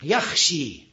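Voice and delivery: "یخشی" ending in a long ee; major imala. Shown as a demonstration. Teacher gives another example, "یخشی" with final a turned to ee. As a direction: recite "یخشی" as "yakhshee". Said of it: "این یخشی اماله کبراست".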